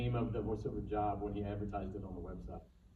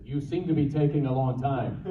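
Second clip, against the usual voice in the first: much louder, sudden line; sudden jump scare line; 3 semitones higher, 10 dB louder than usual. Shown as a demonstration. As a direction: startle them with it. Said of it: "when I said".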